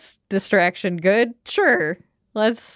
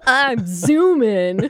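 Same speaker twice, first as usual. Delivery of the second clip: surfer bow voice; much slower than usual. Acted. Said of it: "Whatever it yells has to be cool".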